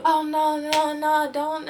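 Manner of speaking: loud, high mock panic; panicked no. Boyfriend keeping his phone from her, loud panicked no.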